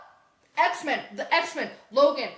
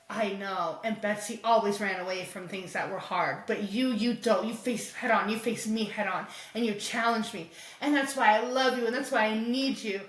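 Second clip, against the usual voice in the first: earnest confession; 5 semitones lower, 4 dB quieter than usual. Retold or imitated. Acting out man's love confession.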